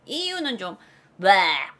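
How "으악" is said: low, drawn-out disgusted noise; exaggerated yuck noise; retching "bleh". Shown as a demonstration. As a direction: mime gagging in revulsion. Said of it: "이런 느낌이랄까?".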